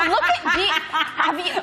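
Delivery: laughing. Real, not acted. Laughing at crumping joke.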